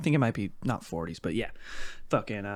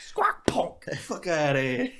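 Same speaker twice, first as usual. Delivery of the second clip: unvoiced raspy squawk then hissed insult; whispering mock bird; whispered crow squawk; 4 semitones higher, slower than usual. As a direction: play a crow croaking at you under its breath. Voicing a crow.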